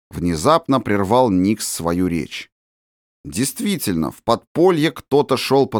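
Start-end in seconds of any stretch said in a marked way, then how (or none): none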